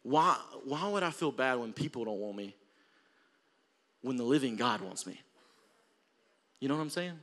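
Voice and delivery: soft and low. Real, not acted. Quiet personal reflection.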